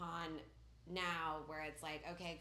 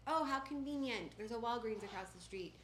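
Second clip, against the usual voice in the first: higher, ironic "how convenient"; mock surprise; 5 semitones higher than usual. Leaving the hospital, ironic mock delight at the pharmacy. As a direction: act pleasantly surprised with a wink. Sarcastic about the Walgreens nearby.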